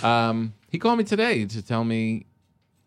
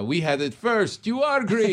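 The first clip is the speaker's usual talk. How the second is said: imitated verdict, slow then rising high on "are Greek"; triumphant driver; 9 semitones higher than usual. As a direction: declare it as the stubborn driver winning the argument. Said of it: "He said".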